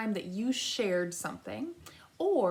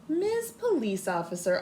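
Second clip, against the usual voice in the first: exclaimed; 4 dB louder than usual. Acted. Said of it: "Amu exclaimed".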